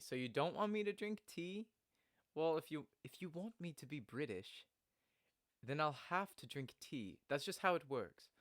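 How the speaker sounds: lightly British character voice; subtle British accent. Acted. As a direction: put on a slight British accent. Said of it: "I have, like, a subtle British accent".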